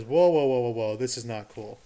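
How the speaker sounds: a sudden loud whoa, then settling back; startled America pulling up short; alarmed whoa. Retold or imitated. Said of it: "and says".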